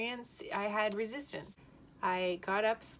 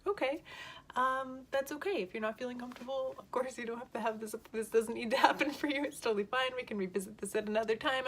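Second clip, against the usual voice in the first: reassuring dentist; 4 semitones higher than usual. Retold or imitated. Voicing the soothing dentist.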